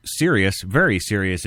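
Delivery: serious leaned on, each word weighed; stress on serious. Shown as a demonstration. Host stressing serious to his listeners. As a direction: hammer home that it's serious. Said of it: "Did I stress the word serious?".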